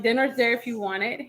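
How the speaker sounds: mildly cold, dismissive retelling. Retold or imitated. Wife tells husband where dinner is, mildly cold. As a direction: retell it offhand, keeping him at a distance. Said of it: "I was being pretty cold".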